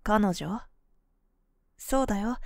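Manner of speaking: ordinary delivery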